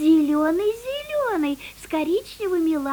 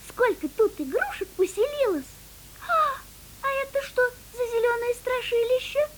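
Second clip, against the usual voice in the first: put-on baby chick voice; 6 semitones higher, faster than usual. Chick explores the tree.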